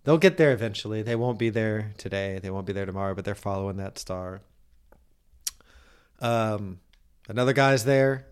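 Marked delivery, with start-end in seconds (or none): 0.0-4.4 hushed, slowing bible-story voice; mock nativity storytelling. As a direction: tell it like a Christmas pageant.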